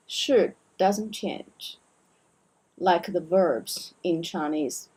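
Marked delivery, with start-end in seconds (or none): 0.1-1.8 slow and deliberate; slow teaching emphasis; slow, emphatic. Shown as a demonstration. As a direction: spell out the rule slowly.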